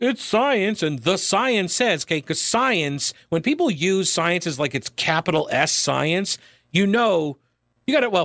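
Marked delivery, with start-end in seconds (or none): 0.0-2.0 put-on dripping sarcasm, high-pitched parroting, parody tone. Mocking people who use science as a debate tactic: mocking imitation of people citing science. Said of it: "It's mockery of the people who say".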